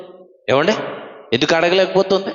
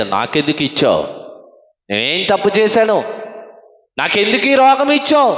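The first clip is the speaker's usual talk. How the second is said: loud demand; 3 semitones higher than usual. Retold or imitated. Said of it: "అడిగాడు గట్టిగా".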